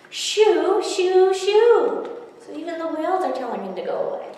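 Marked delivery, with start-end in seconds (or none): 0.1-2.1 high, loud shoo. Acted. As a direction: drive him off. Whales shooing him away.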